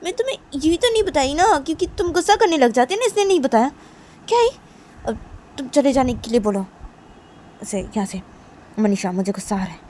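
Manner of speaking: very high, loud, whiny fury; angry outburst. Acted. Nisha to Manisha explaining her silence, high loud anger. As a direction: explode at her friend. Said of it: "तो निशा बोलती कि".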